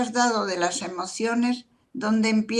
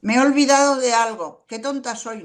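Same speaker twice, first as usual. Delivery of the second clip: louder, higher mock self-reproach; a hammed-up "qué tonta soy" at yourself; self-scolding; 4 semitones higher, 5 dB louder than usual. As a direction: scold yourself out loud for forgetting. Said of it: "me lo digo yo a mí misma".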